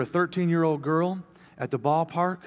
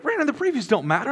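quick, high-pitched dismissal; acted spousal reproach; imitated wife; 10 semitones higher, faster than usual. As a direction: lightly voice a wife setting her husband straight. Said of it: "She's like".

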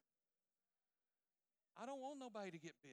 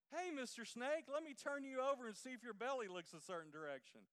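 mock snake inspector; 4 semitones higher, 4 dB louder than usual. Mocking someone examining snakes.

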